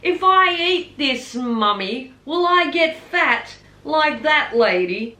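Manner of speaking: high, lightly voiced little boy; imitating a cheeky five-year-old, high; child's voice. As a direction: ask innocently like a small child. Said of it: "he looks at his mother and he says".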